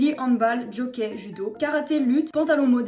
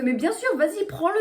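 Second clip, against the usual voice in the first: mock scared compliance; 5 semitones higher than usual. Vlogger imagining handing a judo champion his snack, mock frightened. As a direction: give in at once, playfully intimidated. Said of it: "Elle me fait peur".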